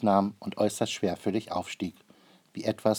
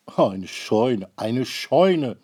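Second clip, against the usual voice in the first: mild annoyed repeat; 3 semitones higher, 8 dB louder, much slower than usual. A narrator's reading.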